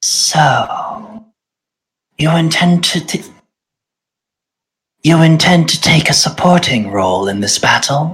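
hushed, soft, quiet whisper. As the spell is cast, the game master voices a presence in the player's mind: Farika's whisper. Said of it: "you hear Farika in the back of your mind whisper".

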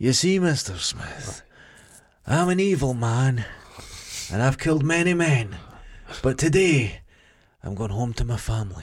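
mock breathy delivery. Mocking a TV show's dialogue in clips: breathy Peaky Blinders impression. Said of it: "it's Peaky Blinders".

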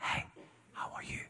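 hushed, very soft, breathy whisper. Preaching about hearing the still small voice, imitating God whispering. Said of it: "So God whisper".

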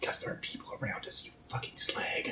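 low, unvoiced whisper under the breath.

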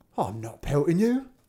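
growling, growled delivery. Narrator reading the first giant answering the other, growling. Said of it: "answered the first, growling".

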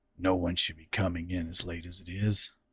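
low, growling voice. Reading a story, he speaks to the woman, growling. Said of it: "he growled".

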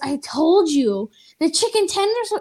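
nasty, mean-sounding voice with rising pitch. Retelling what a woman said to them, imitating a mean voice. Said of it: "in like this mean voice".

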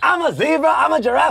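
shrill, very high, loud voiceover delivery. Joking about a million-dollar voiceover, a Chris Rock voiceover impression. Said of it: "the million-dollar voiceover Chris Rock".

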